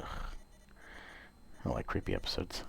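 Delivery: slow uneasy whisper. Real, not acted. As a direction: whisper it out slowly, spooked. Creeped out, whispering.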